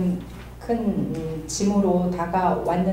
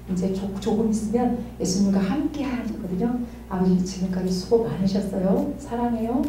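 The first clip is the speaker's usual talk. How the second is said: tender reassurance; 6 dB quieter than usual. Retold or imitated. Dying father in intensive care.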